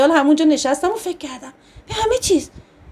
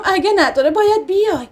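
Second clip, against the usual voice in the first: sobbing; 5 semitones higher than usual. Acted.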